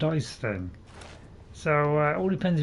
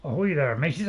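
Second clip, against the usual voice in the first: Irish-tinged pirate greeting. Pretend. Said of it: "Almost slipped into an Irish accent there".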